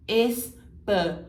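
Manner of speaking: "español" slow with closed O and a crisp L at the tongue tip; clear final L. Shown as a demonstration. Teacher isolates "español" to show the final L. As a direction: draw out "español" ending on a clear L, not U. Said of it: "L no final, bem pronunciado".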